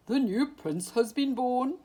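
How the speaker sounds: put-on an old owl echoing the news in disbelief; owl's surprised cry. A narrator's reading. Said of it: "cried the owl".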